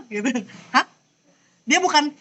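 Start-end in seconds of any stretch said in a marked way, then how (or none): 0.7-0.8 quick rising "Hah?"; startled huh. Shown as a demonstration. Teacher showing the second tone, startled rising "Hah?". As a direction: demo a questioning, surprised "Hah?". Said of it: "kita kalau kaget".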